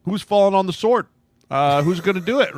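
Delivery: high, loud mock panic; mocking front office. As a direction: play the panicking bosses, voice up high. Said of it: "were like".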